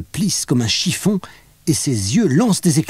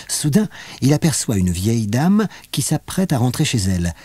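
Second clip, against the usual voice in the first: plain reading voice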